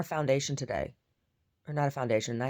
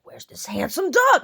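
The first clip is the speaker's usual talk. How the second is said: slow, unvoiced whisper, louder; whispered dog voice; 13 semitones higher, 11 dB louder, slower than usual. Goldie searching behind the mirror, whispered dog voice. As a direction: voice the puzzled dog secretly. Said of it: "he's like".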